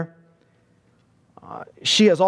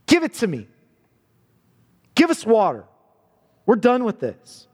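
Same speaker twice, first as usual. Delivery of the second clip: a mild mock of a rude demand; 4 semitones higher than usual. Preacher mimicking the grumbling people to Moses, lightly demanding. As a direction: toss it off like an ungrateful complainer. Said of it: "notice the way, um, that they say it to Moses".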